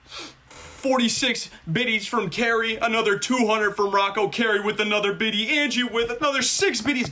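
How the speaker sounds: high, stretched-out donation roll call; excited announcer. Real, not acted. Streamer calling out viewers' donations, excited announcing. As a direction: call out each gift on a high, sustained pitch.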